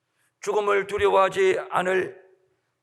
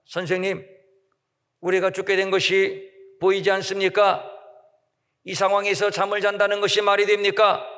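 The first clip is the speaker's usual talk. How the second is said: complaining plea. Retold or imitated. Disciples shaking Jesus awake, urgent complaining plea. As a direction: push him to wake up, half scolding. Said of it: "이렇게 불평을 늘어놓습니다".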